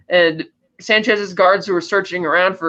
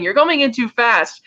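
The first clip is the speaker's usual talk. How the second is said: higher, drawn-out mock complaint; mock protest, stretched out and high; retold complaint; 5 semitones higher than usual. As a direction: complain slowly, pitched up, imitating an annoyed captain. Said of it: "he starts complaining".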